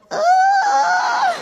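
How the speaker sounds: high squealing yelp, caught off guard; startled yelp. Retold or imitated. Yelping as he grabs her stomach in bed. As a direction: yelp like his hand just touched your belly. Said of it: "so you have to go".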